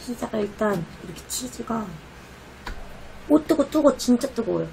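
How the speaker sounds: talking while chewing; breathing out from hot food; mouth full of pizza. Real, not acted. Seen 0: Holds slice throughout; bites and chews pizza around and during speech.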